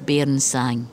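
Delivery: measured recitation, each line set apart by pauses; poem reading. Acted. Poet reading her bilingual poem to the interviewer, steady recitation. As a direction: read it like a poet giving her own verse.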